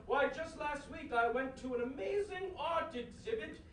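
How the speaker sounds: posh gentleman voice. Acted. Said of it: "you were just gonna come out here".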